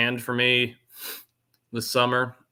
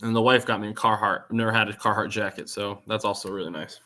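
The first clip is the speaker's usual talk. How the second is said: chewing gum. Real, not acted. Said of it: "Sorry, guys, I'm chewing gum".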